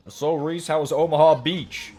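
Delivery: ribbing the old guy at work in a fake Southern accent; coworker's fake Southern accent. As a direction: imitate a coworker's put-on Southern accent, teasing. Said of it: "kind of a fake Southern accent he puts on".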